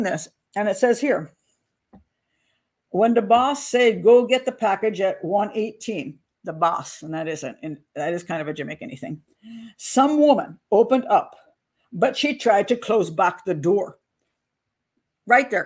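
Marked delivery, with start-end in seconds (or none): 2.9-6.2 light faux Jamaican accent, slow and deliberate. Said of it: "read this in a Jamaican accent". 9.8-14.0 light faux Jamaican accent, slow and deliberate. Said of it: "faux bad Jamaican accent".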